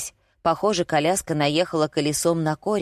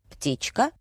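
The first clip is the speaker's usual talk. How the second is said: «Птичка?» с резким подъёмом тона в конце; переспроси «Птичка?», задрав тон на последнем слоге; вопросительная интонация; 5 semitones higher than usual. A narrator's reading. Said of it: "с вопросительной интонацией произнёс". (недоумённый вопрос «Птичка?» повыше)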